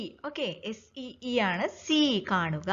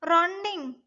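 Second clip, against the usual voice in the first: higher-pitched, puzzled one-word question; surprised question; 6 semitones higher than usual. A narrator's reading. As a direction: echo it in the elephant's surprise. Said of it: "The baby elephant was surprised". (അത്ഭുതത്തോടെ ചോദിക്കുന്നു)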